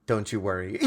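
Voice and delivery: mock reassuring. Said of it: "the waiter's like".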